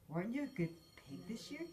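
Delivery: a hint of a grunting pig father; lightly voiced gruff pig question. A narrator's reading. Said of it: "grunted Missus, Mister Tamworth".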